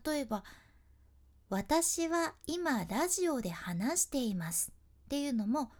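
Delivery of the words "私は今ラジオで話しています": 「私は今ラジオで話しています」を同じ間隔で; every syllable the same size and spacing, slow; even rhythm. Shown as a demonstration. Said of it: "同じ大きさで、同じ間隔で". (一音一音均等に)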